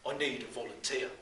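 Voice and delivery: lightly put-on Brummie teacher; Brummie accent. Teacher seeks a volunteer from circle, in a Brummie accent. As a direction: call on the class in a Brummie voice. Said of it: "in his best Brummie accent".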